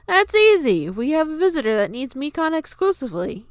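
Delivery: high, loud nervous excuse; nervous stammer. A narrator's reading. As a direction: bluff it out nervously. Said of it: "he stammered".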